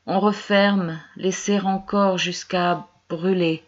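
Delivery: halting, measured poetry reading; poem recitation. Acted. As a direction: recite in broken phrases with long pauses. Reads her poem aloud.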